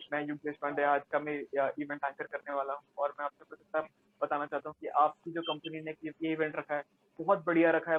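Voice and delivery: hurried anchor introduction; very fast speech. Shown as a demonstration. Event anchor introducing himself to the audience, hurried. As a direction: race through the introduction in one run. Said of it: "बहुत तेजी से बात कर रहा हूँ".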